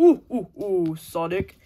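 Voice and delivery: excited call. Pretend. Character excitedly calls Sonic.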